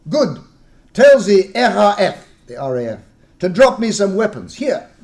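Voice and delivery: loud, high eager question. Acted. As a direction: lean in, full of hope. Host demands weapons.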